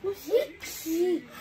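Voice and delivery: drawn-out, exasperated "because"; slow, impatient answer; exasperated retort. Real, not acted. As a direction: stretch it out, fed up with being asked. Answering repeated "why" from sibling.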